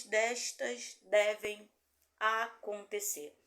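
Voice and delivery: slow, emphatic, projected Bible reading; scripture reading. Real, not acted. Pastor reads Revelation aloud to listeners, solemn scripture reading. Lê em voz alta a Bíblia.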